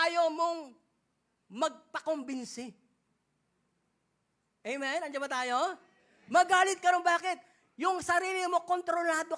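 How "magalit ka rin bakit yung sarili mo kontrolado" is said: loud rebuke from the pulpit; preaching shout. Acted. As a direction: call it out over the crowd. Preacher exhorts, raised voice.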